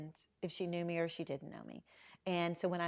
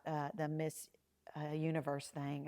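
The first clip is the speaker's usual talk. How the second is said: whispered aside; 4 semitones lower, 6 dB quieter than usual. Real, not acted. Telling the host about asking Harvey the awkward question, a whisper. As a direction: whisper the touchy topic. Hushed mention of the touchy topic.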